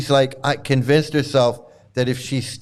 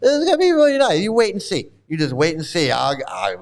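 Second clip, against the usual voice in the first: mock naive excitement; 2 semitones higher than usual. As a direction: play the deluded optimist getting carried away. Naive believer voice, building excitement.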